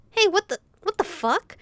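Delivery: sudden panicked shout; panicked yell. Acted. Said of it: "yelled in panic".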